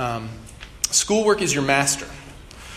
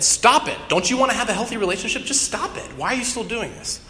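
high-pitched comic scolding; exasperated yell; 7 semitones higher than usual. Acted. Therapist scolds patient over unhealthy relationships, exasperated mock yell. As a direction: burst out, then keep scolding up high. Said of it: "he just yells at her".

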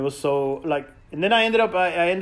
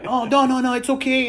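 higher, breezy brush-off; mock drunk dismissive; 7 semitones higher than usual. Drunk driver dismissing the injury, higher breezy voice. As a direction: wave it away like a careless drunk. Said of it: "And he's all like".

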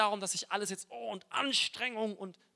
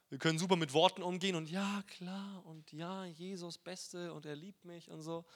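mock glib; 3 dB quieter than usual. Mocking glib Christian phrases.

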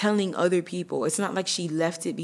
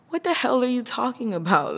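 stunned disbelief; 7 semitones higher than usual. Retold or imitated. Answering the girlfriend's accusation, shocked disbelief. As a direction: fire it back in shock. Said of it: "And I'm like".

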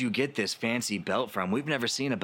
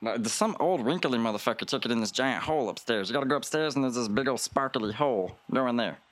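small helper voice; 3 semitones higher, faster than usual. Acted. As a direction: point the way upstairs nervously. Same small character gives directions.

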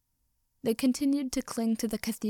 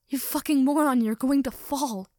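urgent hissed shout, louder and higher; stage whisper; 4 semitones higher, 6 dB louder than usual. A narrator's reading. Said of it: "Katsuki whisper shouted".

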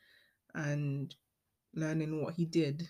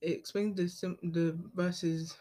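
tripping over the words; stumbling, restarting mid-word; stuttering. Real, not acted. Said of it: "I don't know why I'm stuttering".

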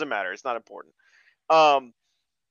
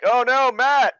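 higher, louder hammed-up alarm; mock cry of alarm; 7 semitones higher, 7 dB louder, slower than usual. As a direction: wail it like a B-movie panic. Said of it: "Then Matt, like".

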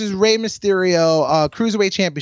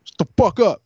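imitated yelling parents; 3 semitones higher than usual. Parents telling their noisy kid off, mock yelling. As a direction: act out an annoyed parent. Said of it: "I got yelled at by my parents".

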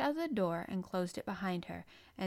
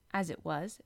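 ordinary delivery

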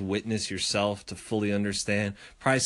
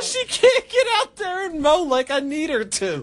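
imitating neighbor; 5 dB louder than usual. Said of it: "So he's like".

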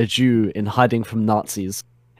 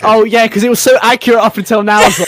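sarcastic; 11 semitones higher, 6 dB louder, faster than usual. Real, not acted. Sarcastic jab at the story.

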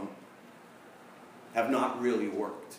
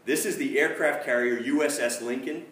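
louder, raised captain's demand; mock yell; 4 semitones higher, 6 dB louder than usual. Captain yelling into the radio at the British voice, mock yell. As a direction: bark it like an angry captain. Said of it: "the captain is, like, yelling into the thing".

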